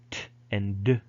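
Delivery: T as a bare puff, d voiced; demonstrating speech sounds. Shown as a demonstration. Teacher contrasting voiceless and voiced stops, demonstrating. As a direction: release T and d as isolated sounds. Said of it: "how you know if it's voiced".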